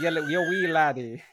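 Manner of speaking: stammered Scottish-Irish brogue; mock Irish accent. Closing the podcast with a mock Irish brogue. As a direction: toss in a stereotype brogue. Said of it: "Irish accent".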